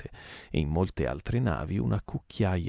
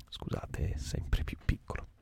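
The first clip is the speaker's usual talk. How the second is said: whisper; 6 dB quieter than usual. Real, not acted. Reader's aside, whispered apology.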